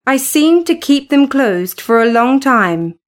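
usual speaking voice

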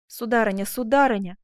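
a mildly pleading exclamation; understated protest; exclaiming. Acted. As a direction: cry out to her with some restraint. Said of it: "воскликнул Асканио".

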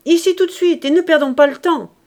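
high, loud urgent order; yelling. A narrator's reading. Father orders his daughter back, yelling. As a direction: yell the order impatiently. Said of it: "hurla le père".

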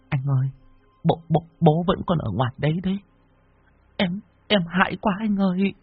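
cling to him and beg in fear; frightened wife. Acted. Cô Hải begs her husband in fear of the ghost.

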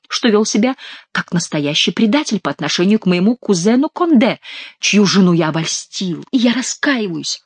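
lightly hammed-up penitent; put-on contrite recital; nasal mock confession. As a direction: draw out the final repentance. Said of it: "гнусавя, как король".

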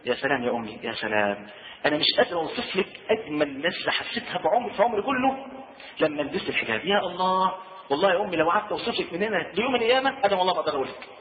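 a daughter confiding warmly to her mother; gentle heartfelt talk to mother. Pretend. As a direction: coax her tenderly with wonder. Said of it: "خدي أمي كده على جنب كده".

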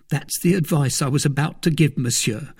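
a jittery valet blurting out news; frightened servant Planchet. A narrator's reading. Planchet voiced by narrator.

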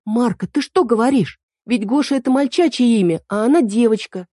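put-on high, indignant young girl correcting him; girl Эль voice. A narrator's reading. Эль jumps in to correct Марко, high and indignant. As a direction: pitch it up as the fussy girl fairy. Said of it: "Тут же подскочила Эль".

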